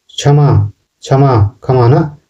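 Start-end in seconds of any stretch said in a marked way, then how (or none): 1.0-1.3 क्षमा said as "chhama"; Nagpuri pronunciation. Shown as a demonstration. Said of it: "केवल छ use होता है". 1.6-1.9 क्षमा said as "khama"; Nagpuri pronunciation. Shown as a demonstration. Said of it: "या ख भी यूज़ होता है".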